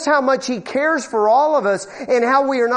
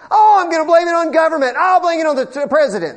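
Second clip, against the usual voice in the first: mocking whine; 6 semitones higher, 5 dB louder, faster than usual. Mocking people who blame others.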